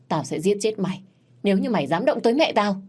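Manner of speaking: angry threat. Acted. Thành threatens the crown prince.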